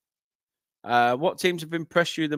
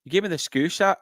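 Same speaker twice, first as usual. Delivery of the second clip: attempted Scouse slipping into Scottish, pitched higher; botched Scouse, still Scottish; 4 semitones higher than usual. Shown as a demonstration. Commentator trying Scouse by mistake in a Scottish accent. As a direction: aim for Scouse but land in Scottish. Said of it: "that's still Scottish".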